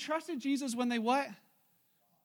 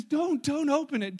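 higher, louder, slow warning; acted urgent protest; 4 semitones higher, 6 dB louder, slower than usual. Martha begging them not to open tomb, acted urgent protest. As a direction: urge them to stop.

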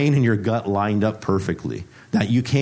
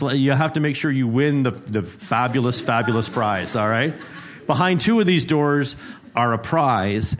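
game show host; 3 semitones higher than usual. Acted. Preacher plays game show host to the congregation, hyped announcer. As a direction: sell the prize like a cheesy TV host.

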